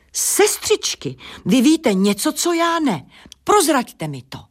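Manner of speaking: very high, squeaky little voice; high squeal. A narrator's reading. First voice begging its sisters for the secret, squealing. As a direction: squeal it up high, pleading to be told. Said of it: "První hlas vypískl".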